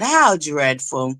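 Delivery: slow, drawn-out mock disdain; posh mock disdain. Showing off her new favorite word, slow and snooty. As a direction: savor it like a snooty socialite. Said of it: "That's my new favorite word".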